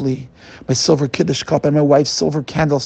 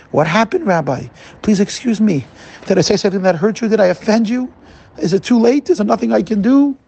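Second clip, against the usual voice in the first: higher, urgent worried questions; anxious pleading; 4 semitones higher than usual. Retold or imitated. Man to the weeping rabbi, anxious and higher. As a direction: plead in alarm, hurried.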